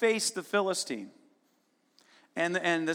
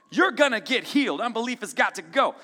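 clarion call; 3 semitones higher, 4 dB louder than usual. Retold or imitated. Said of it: "sounding the clarion call".

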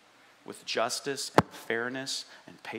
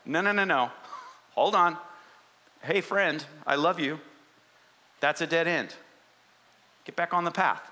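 louder, urgent but loving stop-and-redirect; a friend grabbing your arm before a dead end; friendly Lord correcting; 3 semitones higher, 3 dB louder than usual. Acted. God calling a wandering believer back to the path. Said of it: "the Lord is like".

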